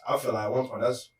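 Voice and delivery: talking around something in mouth; words round a bite of food; mouth full. Real, not acted. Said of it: "something in my mouth crazy".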